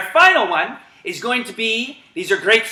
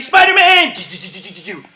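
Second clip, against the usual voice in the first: call then web noise; 4 dB louder than usual. Real, not acted. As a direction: shout then flick webs. Calling command then web sound.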